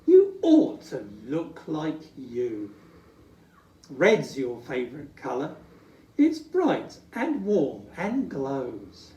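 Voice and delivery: smiling wife. Acted. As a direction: reassure him kindly. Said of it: "Miss Santa smiles".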